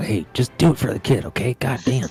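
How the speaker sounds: slow, drawn-out, secretive, coaxing stage whisper. Tabletop player voicing a character who whispers to a scarecrow; whispering. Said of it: "She just whispers to the scarecrow".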